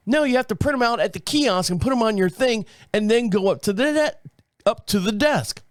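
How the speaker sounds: mock British agent insisting; British accent. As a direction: correct him in a British accent. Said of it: "'cause she's British".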